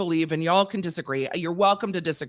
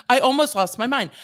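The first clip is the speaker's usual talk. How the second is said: louder and higher, losing patience; exasperated outburst; 4 semitones higher, 4 dB louder than usual. Real, not acted. Venting to viewers about ticket fees, louder outburst. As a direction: blurt it out in exasperation. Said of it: "And I almost lost my mind".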